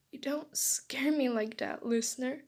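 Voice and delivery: mildly tearful reproach; a touch of tears, held back; crying. Acted. Boy hugging sick friend, crying. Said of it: "he cried".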